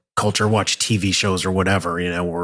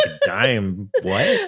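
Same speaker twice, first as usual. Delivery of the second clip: baffled; much slower than usual. Retold or imitated. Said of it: "They're like".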